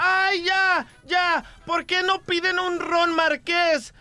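camp voice. Retold or imitated. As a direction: lightly play the effeminate customer. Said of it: "se para un mariposita".

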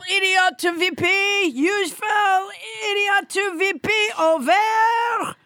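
hammed-up puppet Trump voice, bossy and boastful; French Trump puppet. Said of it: "everybody's least favorite hand puppet, French Trump".

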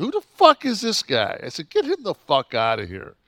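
high, loud outraged demand; indignant shout, voice shooting up; retold scream. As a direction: re-enact yelling to the promoter about an intruder. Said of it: "hear me scream at this motherfucker".

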